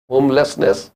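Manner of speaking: usual speaking voice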